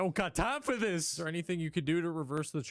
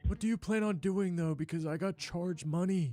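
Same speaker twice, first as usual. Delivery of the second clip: put-on old man voice; 4 semitones higher than usual. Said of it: "my fucking old man voice".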